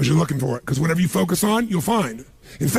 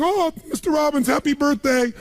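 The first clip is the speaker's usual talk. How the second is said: lightly voiced gushing maid, higher; maid's voice; 5 semitones higher than usual. Speaker imitates his maid thanking him, mild gushing voice. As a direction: gush like a grateful maid, a bit higher. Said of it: "she's back at home in the castle going".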